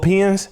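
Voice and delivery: "Penn's" as "pins", meaning bowling pins; imitated Chicago accent. Host quoting the bowling invitation, "Penn's" said as "pins". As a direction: say "Penn's" with a short i. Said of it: "y'all Chicago people got accents".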